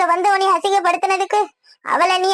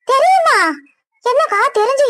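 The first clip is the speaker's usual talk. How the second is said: shocked; 6 semitones higher than usual. Acted. Woman stunned that her sister-in-law already knows. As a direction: jolt up in disbelief.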